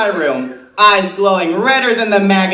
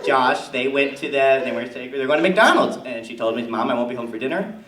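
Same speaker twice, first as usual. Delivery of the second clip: Tammy Kirscher character. Acted. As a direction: play a chatty suburban mom comic. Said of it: "please give it up for Tammy Kirscher".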